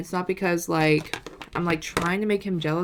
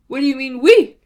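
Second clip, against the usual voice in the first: giddy squealing disbelief; 6 semitones higher, 11 dB louder than usual. Real, not acted. Giddy over his word we.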